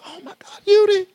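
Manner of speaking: breathy hushed gasp of disbelief; shocked whisper. Retold or imitated. Siblings whispering in shock over the fallen boy. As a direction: whisper it in stunned horror. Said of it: "His brothers and sisters are like".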